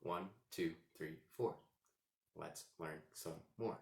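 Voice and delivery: measured verse, one beat per syllable; evenly spaced, subdued recitation; counting out syllables. Shown as a demonstration. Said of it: "a certain amount of syllables".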